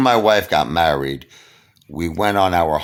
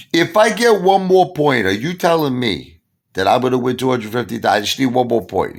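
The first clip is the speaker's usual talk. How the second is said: frantic excitement; 7 semitones higher, 6 dB louder than usual. Retold or imitated. Frantic question about jackpot.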